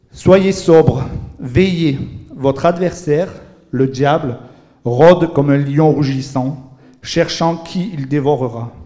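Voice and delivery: deliberate, emphatic Bible reading with weighty pauses; solemn scripture reading. Acted. Preacher reads a warning verse to the congregation, solemn and emphatic. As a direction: proclaim the verse phrase by phrase.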